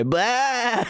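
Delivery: high, drawn-out comic sheep "baa"; goofy sheep cry; imitated sheep bleat. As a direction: bleat like a sheep sailing through the sky. Imitates a sheep flying through sky.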